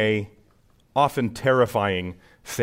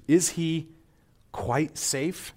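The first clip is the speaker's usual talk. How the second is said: lightly voiced child, pitched up; children asking; 4 semitones higher, 4 dB quieter, slower than usual. Children asking beavers about Aslan, lightly acted question. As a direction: ask with a hint of childlike hesitation. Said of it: "The children say to the beavers".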